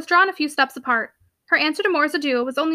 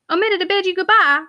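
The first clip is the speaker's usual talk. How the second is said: higher, incredulous echoed question; astonished echo; 5 semitones higher, 3 dB louder than usual. A narrator's reading. Tenant surprised by the friends he left behind, astonished. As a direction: throw the accusation back in surprise.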